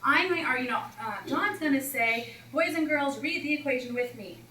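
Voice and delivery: high, announcing teacher voice; teacher addressing class. Retold or imitated. Coach explains the routine to the class, high teacher voice. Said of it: "And I said".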